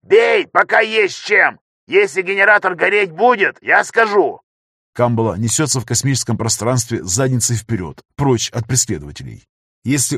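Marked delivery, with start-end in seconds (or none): 0.0-4.4 frantic yell. A narrator's reading. Tech yelling over intercom.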